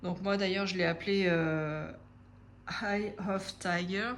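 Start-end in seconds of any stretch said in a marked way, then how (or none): 2.8-4.1 French-accented English. Real, not acted. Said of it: "Excusez mon accent pourri".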